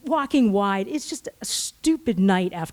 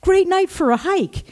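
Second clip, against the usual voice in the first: high, mock-cheery sarcasm; sarcastic; 8 semitones higher, 4 dB louder than usual. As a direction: overplay the enthusiasm with obvious irony. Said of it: "I'm being sarcastic".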